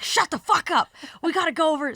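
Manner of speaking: high loud excited yell to go now; excited squeal. Retold or imitated. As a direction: squeal it in drunken delight. Excited host reacting.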